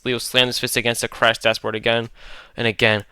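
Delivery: plain reading voice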